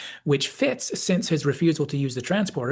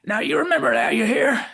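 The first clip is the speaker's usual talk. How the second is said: put-on fond old Southerner giving advice, pitched up; Southern McCoy; 10 semitones higher, 5 dB louder than usual. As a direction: counsel the youngster in a high Southern accent. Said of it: "while McCoy says".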